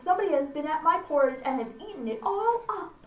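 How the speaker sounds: a hint of a baby bear's complaint; little wee bear. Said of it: "our little small wee bear".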